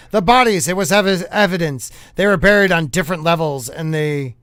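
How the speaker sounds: put-on brisk old-time newscaster; lightly played newsreel announcer; 1950s news voice. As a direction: report it like a vintage bulletin. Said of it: "read it in a nineteen fifties news style voice".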